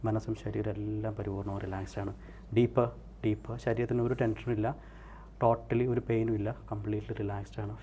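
measured hypnotist's induction voice; hypnotic relaxation. Real, not acted. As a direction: talk them down into total relaxation.

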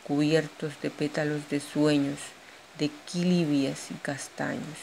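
measured poetry reading with pauses between verses; poem recital. Acted. Poet shares her own poem with an audience, poem recital.

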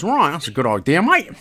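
put-on jokey take on an American accent. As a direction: quote him with a touch of American accent. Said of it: "in American accent".

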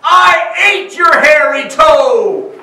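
put-on a frightened old woman shouting from her bed; terrified shout. A narrator's reading. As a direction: blurt it out in panic. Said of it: "in terror and shouted".

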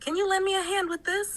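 a high, quick model line with "you" rising; model sentence. Shown as a demonstration. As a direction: say "Can you lend me a hand with this?" high and brisk as an example. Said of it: "Your turn". (ประโยคตัวอย่าง เสียงสูง พูดเร็ว)

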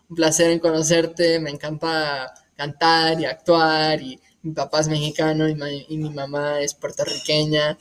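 speaking fluent Spanish as a demo; chatty self-introduction in Spanish. Shown as a demonstration. Telling about his parents to show languages, speaking Spanish. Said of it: "This is Spanish".

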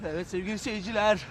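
race commentary. Pretend. Calling Vedat's dash to listeners as a race, mock commentary. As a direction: call it like a horse race, rising in excitement.

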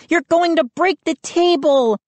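put-on high, urgent girl's cry; alarmed scream. A narrator's reading. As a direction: warn him in a high scream. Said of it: "Mindy screamed".

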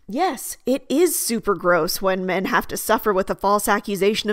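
emphatic yeses, mildly acted agreement; enthusiastic agreement. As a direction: agree wholeheartedly, leaning on each "yes". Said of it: "people enthusiastically agreeing with you".

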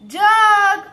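loud, high, drawn-out word; reading out loud. Shown as a demonstration. Teacher models a word for children, loud and drawn out. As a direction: sound it out loudly on a held high note. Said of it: "એકદમ મોટેથી".

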